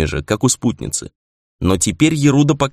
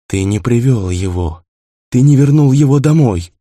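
ghost building to a cry; 3 semitones higher, 4 dB louder than usual. A narrator's reading. (призрачный голос, переходящий в крик)

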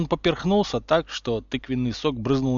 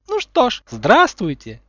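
put-on much higher and louder, sugary little-girl voice; girlish high voice; 9 semitones higher, 9 dB louder than usual. A narrator's reading. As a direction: chirp it like a sweet girl. Umbridge greeting class. (высоким девичьим голоском)

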